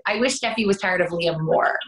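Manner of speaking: saying it through a laugh. Real, not acted. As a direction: laugh while you speak. Joking about her character.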